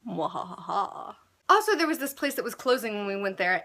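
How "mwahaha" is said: low, slow evil cackle; evil laugh. Acted. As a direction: cackle like a villain.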